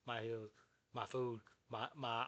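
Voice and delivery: halting, broken-off recitation; stuttering. Retold or imitated. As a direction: stumble and restart, lost for words. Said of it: "I'm over stuttering shit".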